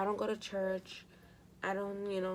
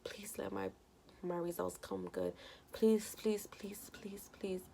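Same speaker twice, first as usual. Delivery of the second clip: pleading prayer. Retold or imitated. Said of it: "I prayed to God".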